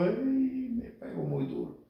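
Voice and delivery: hammed-up tearful complaint; mock crying child. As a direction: imitate a whimpering kid after a spanking. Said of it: "y uno llorando".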